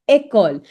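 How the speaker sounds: école as a short, clear "ay-koll"; model pronunciation. Shown as a demonstration. Teacher finishing a drill for learners, école clearly as "ay-koll". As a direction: say école neatly, starting with "ay". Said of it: "you create a sound of A".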